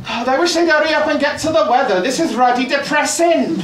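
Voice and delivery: weary grumbling surfer; Welsh surfer voice. Retold or imitated. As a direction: moan about the news like a bored local. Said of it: "one of them just suddenly goes like".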